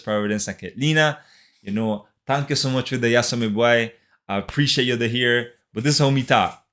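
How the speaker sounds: island Creole lilt from San Andrés; relaxed San Andrés Creole English. Shown as a demonstration. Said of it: "allá hablamos así".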